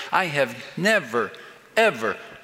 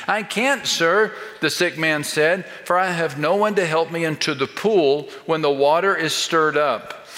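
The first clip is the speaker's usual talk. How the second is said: whiny excuse. Shown as a demonstration. The sick man whining his excuses to Jesus, complaining. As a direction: plead your case like a tired complainer. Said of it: "the response of the man convinces me".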